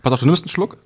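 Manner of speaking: nose held shut while talking; pinching nose. Shown as a demonstration. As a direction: speak with your nose pinched. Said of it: "Nase zuhalten".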